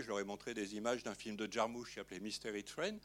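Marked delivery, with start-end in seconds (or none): 2.2-3.0 Mystery Train dit avec un accent français assumé; anglais hésitant. Real, not acted. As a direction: prononcer Mystery Train à la française, sans forcer l'anglais. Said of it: "Pardon pour mon accent". (Mystery Train avec un accent anglais maladroit)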